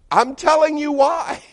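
high, loud insistent donkey; loud high donkey protest; talking donkey. Acted. Donkey keeps arguing.

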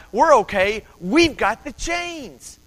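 high, loud mock confidence; hammed-up overconfident boast; joking bravado. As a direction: crow it cockily, drawing out the last words. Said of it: "we kinda made jokes like".

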